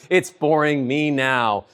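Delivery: ordinary talk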